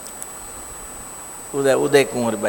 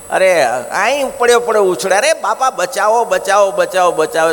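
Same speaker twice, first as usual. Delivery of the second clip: panicked cries of bachao, louder; a man in torment begging to be saved; cry for help; 4 semitones higher, 3 dB louder than usual. Acted. Tortured man crying for help. (ગભરાઈને બચાવો બચાવોની બૂમ)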